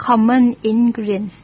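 each syllable of "common ingredients" stretched out slowly; slow careful pronunciation. Shown as a demonstration. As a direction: spell it out slowly for learners. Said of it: "ลอง อ่า หัดออกเสียง". (ออกเสียงช้าๆ ชัดๆ ให้นักเรียนฟัง)

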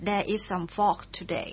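there is some fog today stretched out very slowly, fog held long; very slow model. Shown as a demonstration. Teacher repeats it for radio listeners, very slow and even. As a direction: drag the whole sentence out for learners to copy. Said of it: "เช่นบอกว่า".

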